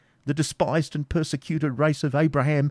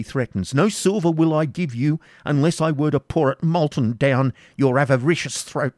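louder, impassioned father defying torture; desperate defiance; 4 semitones higher, 3 dB louder than usual. Acted. Isaac defying the baron's torture, desperate and loud. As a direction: defy him with everything. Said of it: "rendered desperate by paternal affection".

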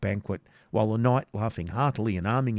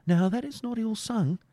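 jester voice; 13 semitones higher than usual. Acted. Wamba's jester voice.

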